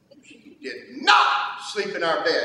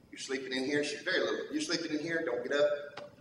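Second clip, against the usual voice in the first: put-on much softer and lower, gently firm with the little girl; soft bedtime voice; 3 semitones lower, 9 dB quieter, faster than usual. Father hushing his little daughter at bedtime, softly. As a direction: hush it down like tucking a child in.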